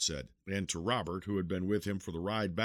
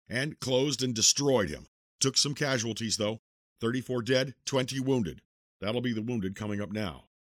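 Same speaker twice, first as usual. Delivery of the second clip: soldier reporting; 3 semitones higher than usual. Acted. Forling continues his report.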